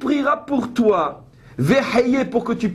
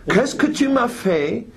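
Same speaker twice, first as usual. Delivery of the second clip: English gentleman; 2 semitones higher than usual. Shown as a demonstration. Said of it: "avec un petit accent anglais, très gentleman".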